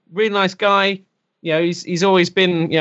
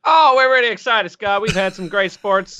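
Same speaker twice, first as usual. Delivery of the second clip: put-on American accent; 3 semitones higher than usual. Englishman gives the sports segment to the host, in a mock American accent. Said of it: "I'm doing an American accent".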